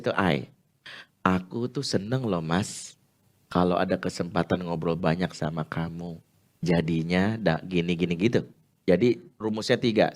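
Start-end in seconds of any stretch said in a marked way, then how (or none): 1.2-8.2 gentle I message. Shown as a demonstration. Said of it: "pakai teknik I message".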